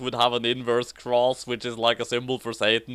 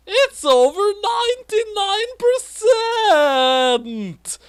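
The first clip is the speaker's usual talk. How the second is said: very high, louder shriek; scary shout; 6 dB louder, slower than usual. A narrator's reading. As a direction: shriek the number in alarm. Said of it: "she shouted in a scary way".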